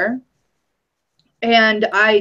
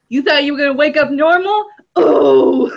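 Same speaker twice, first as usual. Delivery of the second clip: mocking trickster god; 5 semitones higher, 4 dB louder than usual. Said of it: "laughing his ass off 'cause he was like".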